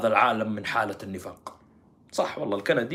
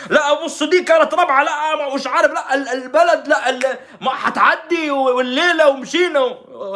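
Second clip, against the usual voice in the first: high, loud, broken-off babble; hammed-up protesting tirade; mock frantic shouting; 12 semitones higher, 7 dB louder than usual. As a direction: imitate someone hollering excuses over everyone. Mimics pro-dictator shouters breaking off.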